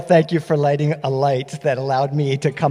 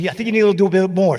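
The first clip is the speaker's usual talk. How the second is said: lightly voiced teasing old lady; 4 semitones higher, 6 dB louder, much faster than usual. Teller voices Kathryn urging him.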